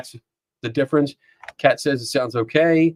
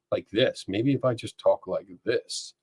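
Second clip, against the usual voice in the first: softer, lower everyday voice; talking normal; 5 semitones lower, 9 dB quieter than usual. Shown as a demonstration. Streamer testing a less tinny mic level, quiet. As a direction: drop the projection, speak low and soft. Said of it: "maybe if I just talk normal".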